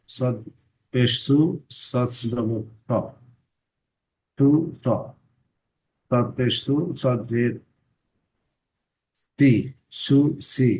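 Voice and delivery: broken up with pauses; halting, letter by letter; staccato. Real, not acted. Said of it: "একটু থেমে থেমে বলতেছি".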